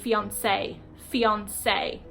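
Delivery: "fiancé" said identically twice, ending in "say"; British pronunciation. Shown as a demonstration. Teacher showing one "fiancé" for man or woman, British pronunciation. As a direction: model "fiancé" evenly as British people say it. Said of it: "British people, they pronounce it both".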